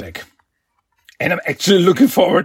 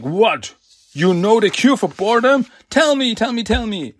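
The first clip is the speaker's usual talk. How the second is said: eager tell me; 6 semitones higher than usual. Retold or imitated. Villain begging the turtles for boredom's cure, eager pitch up. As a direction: pitch jumps up, eager and pleading. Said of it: "Mister Ogg immediately jumps at it".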